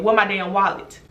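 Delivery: retold blunt question in an even voice; straight, blunt demand. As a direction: ask it straight out, no shouting. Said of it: "Straight like that".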